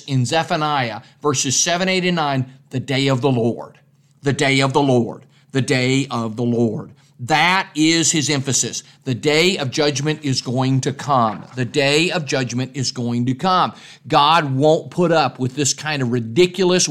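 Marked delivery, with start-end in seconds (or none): 2.7-6.9 lower, measured repeat of "The day of the Lord"; "The day of the Lord" pitched low, falling at the end each time; solemn repetition. Real, not acted. Preacher repeats prophet's key phrase. 9.0-13.7 "The day of judgment is going to come" repeated with a falling close; measured, weighty warning that falls on "come"; solemn warning. Real, not acted.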